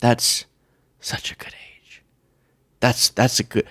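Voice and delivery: hushed, mostly whispered admiration; imitated fond cooing. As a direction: whisper it, imitating someone fussing over a child. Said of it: "I only ever hear".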